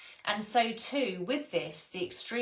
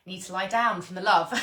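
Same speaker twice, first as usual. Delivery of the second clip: louder, laughing through the words; 5 dB louder than usual. Real, not acted. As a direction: giggle it out, giddy with love. Laughing at overflowing love.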